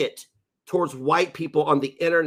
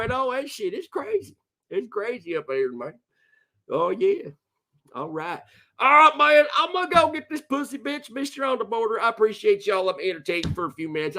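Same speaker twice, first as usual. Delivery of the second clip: Dick the Hick voice; 8 semitones higher than usual. Acted. Streamer voicing his hick character to chat. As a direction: play a crude hillbilly character.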